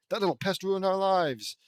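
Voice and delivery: loud, high, building to a furious vow; enraged. Acted. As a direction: build from indignation to a shouted threat.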